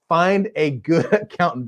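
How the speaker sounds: giggling through the words; can't keep a straight face on the advice; laughing. Real, not acted. Host cracks up while repeating advice, laughing.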